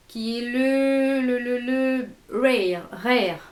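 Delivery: French speaker's attempted English accent; lightly put-on English accent on the name. Shown as a demonstration. Vlogger naming a blush shade, in a self-mocking English accent. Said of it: "avec mon accent super anglais".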